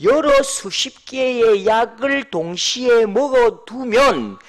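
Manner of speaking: slow, careful standard-Korean paraphrase. Shown as a demonstration. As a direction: spell it out slowly in standard speech. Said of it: "표준말로 표현하면요".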